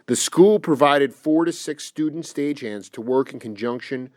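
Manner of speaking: quietly reciting someone's account from the page; reading aloud. Real, not acted. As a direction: read out an interview quote evenly and low. Reads an interview quote aloud.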